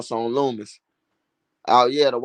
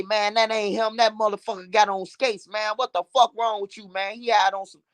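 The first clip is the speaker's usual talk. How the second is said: higher, lightly voiced arguing homie; scolding his friend in a higher voice; voicing the dudes; 6 semitones higher than usual. Homie arguing with his friend, raised mock voice. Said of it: "Dudes say".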